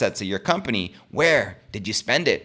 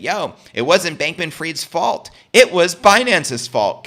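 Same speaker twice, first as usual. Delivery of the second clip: higher and slow, hammering the blame onto Binance; mock protest; 6 semitones higher, 5 dB louder, slower than usual. Vlogger mocking O'Leary's pitch to regulators, slow high protest. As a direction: play O'Leary pleading innocence, drawn out. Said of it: "trying to tell the regulators that".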